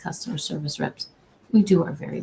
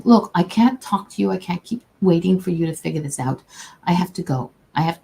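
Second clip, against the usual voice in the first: mildly impatient rep, imitated; mock-dismissive customer service rep; retold disrespect. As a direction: act out a brush-off, a touch curt.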